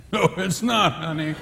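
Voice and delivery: a touch of sarcastic husband; snide husband. Retold or imitated. Husband mocking his wife's cooking, mildly sarcastic. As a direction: say it with a dry edge. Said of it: "Same words".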